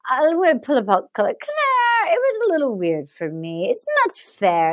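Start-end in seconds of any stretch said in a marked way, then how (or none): 1.4-4.7 imitated bachelor. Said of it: "So then he goes".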